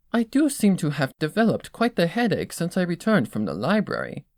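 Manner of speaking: admiring Rarity. Acted. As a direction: savor each compliment like a fashion critic. Rarity weary.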